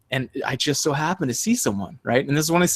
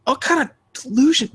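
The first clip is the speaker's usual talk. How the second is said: sarcastic aside; 13 semitones higher than usual. Retold or imitated. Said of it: "I was like".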